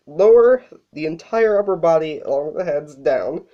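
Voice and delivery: breathless from being sick; short of breath, sick voice. Real, not acted. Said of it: "Sorry if I sound out of breath".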